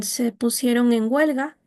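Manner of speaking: "Se pusieron en huelga" rising then ending on a falling tone; falling final tune. Shown as a demonstration. Teacher demonstrating to class a statement ending in a fall. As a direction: lift "Se pusieron", drop down on "huelga". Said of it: "termina en un tono descendente".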